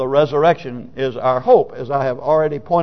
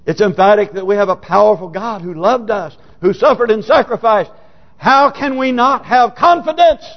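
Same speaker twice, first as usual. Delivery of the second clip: fervent delivery rising in pitch; emphatic preaching; 6 semitones higher, 4 dB louder than usual. Acted. Preacher urging confidence in a powerful God, emphatic preaching. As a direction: build to a challenge for the congregation.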